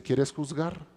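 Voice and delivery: God calmly handing him the judge's seat; quiet grave voice of God. Acted. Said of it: "Dios lo pone en el papel de juez y le dice".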